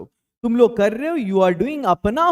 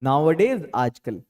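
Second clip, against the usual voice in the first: slow model phrase; 7 semitones lower, much slower than usual. Shown as a demonstration. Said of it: "तो फिर हम बोलेंगे nowadays".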